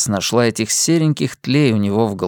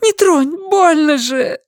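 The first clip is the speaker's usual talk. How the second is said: high, loud pained woman's cry; Linda in pain; 3 dB louder than usual. A narrator's reading. Linda pushes the boy off her sore back, pained cry. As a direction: cry out, it hurts. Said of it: "взвизгнула Линда".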